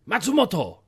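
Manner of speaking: mock Japanese accent on the name; hammy fake Japanese accent; rubbish Japanese accent. Shown as a demonstration. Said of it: "It's a rubbish accent".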